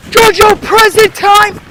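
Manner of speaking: high, loud, drawn-out sing-out; luring call. Retold or imitated. Teen lures cousin downstairs, high loud calling. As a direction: call it out slowly to lure a child down.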